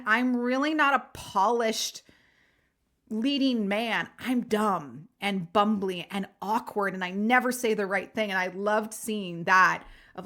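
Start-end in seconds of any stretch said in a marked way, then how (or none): 0.1-8.3 fumbling nice guy. Retold or imitated. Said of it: "that nice guy fumbling".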